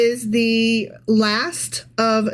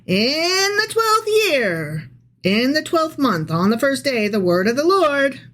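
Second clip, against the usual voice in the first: scripture reading; 3 semitones higher than usual. Real, not acted. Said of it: "I'll be right back into my notes".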